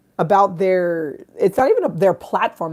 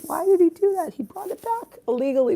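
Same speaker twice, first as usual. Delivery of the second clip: mock disbelief; 11 semitones higher than usual. Real, not acted. Mock disbelief at dad's deed.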